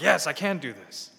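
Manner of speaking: loud, sure "Yes, I can do this"; cocky confidence. Acted. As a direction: say "Yes, I can do this" boldly and proudly. Mimics overconfident Christian, contrast.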